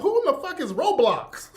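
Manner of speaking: loud, high indignant yell; outraged. Retold or imitated. Uncle reading his bill, loud outraged yell. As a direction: demand to know who this is. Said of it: "I'm like".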